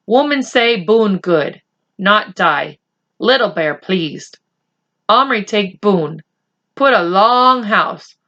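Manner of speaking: a hint of a solemn chief; Little Bear speaking. Little Bear speaks in broken English.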